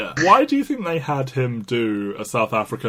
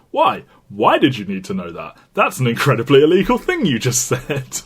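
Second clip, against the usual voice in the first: incredulous; 5 dB louder than usual. Acted. Arguing back at film character.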